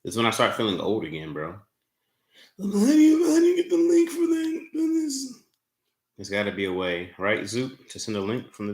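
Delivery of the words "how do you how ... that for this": squeaky exasperated pleading; high-pitched flustered whine. Real, not acted. Frustrated high exasperated question.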